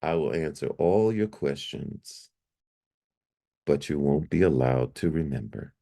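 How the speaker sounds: measured, even angel reply; calm. Retold or imitated. Angel answering a man's questions for God, calm. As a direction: answer calmly, letting the phrases settle. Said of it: "it said so calmly".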